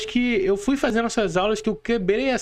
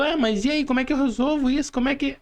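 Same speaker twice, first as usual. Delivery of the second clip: higher, fast anxious plea; retelling own panic; 5 semitones higher, faster than usual. Retold or imitated. Asking Paula how to fix the crashed accounts, anxious and fast. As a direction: replay your worried question, rushing.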